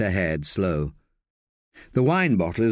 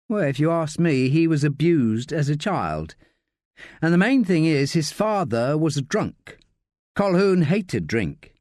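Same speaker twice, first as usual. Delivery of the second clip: lightly voiced higher woman, emphatic; Josie, earnest; 5 semitones higher than usual. Josie giving her view of the victim's childhood, emphatic. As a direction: make the case in a higher character voice.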